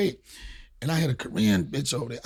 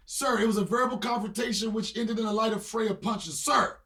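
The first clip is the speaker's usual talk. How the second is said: repeated through laughter; 6 semitones higher, 5 dB quieter than usual. Shown as a demonstration. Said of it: "Repeat that for me".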